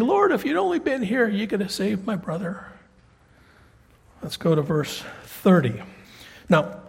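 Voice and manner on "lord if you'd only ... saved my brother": plead, then let it fall away; second sister. Acted. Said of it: "she says the exact same thing".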